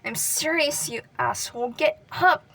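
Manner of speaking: loud, pleading shout to wake him; urgent shouting. Acted. Katsuki yelling at the unmoving boy, loud and desperate. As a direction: yell at him to get up. Katsuki shaking unconscious Deku.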